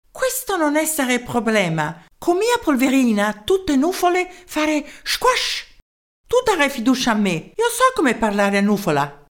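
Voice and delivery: a tiny German professor in broken Italian; small German-accented voice. Acted. Professor answering the mayor's call, small German-accented voice. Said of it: "Una vocina dal tipico accento tedesco".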